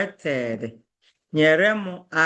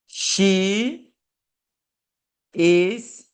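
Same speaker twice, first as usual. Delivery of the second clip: "she... is... coming", long pauses between the words; much slower than usual. Shown as a demonstration. Teacher giving learners an example sentence, word by word. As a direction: dictate "she is coming" with each word standing alone.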